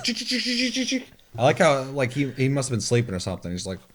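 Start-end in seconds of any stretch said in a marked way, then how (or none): 0.0-1.1 creepy chick chick sound. Retold or imitated. Imitating the BT detector creature with high clicking chicks. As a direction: mimic the ticking creature in a much higher voice. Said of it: "And the thing goes".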